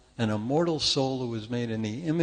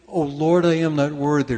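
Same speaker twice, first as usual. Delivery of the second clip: pious prayer; 8 dB louder than usual. Retold or imitated. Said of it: "Remember that one?".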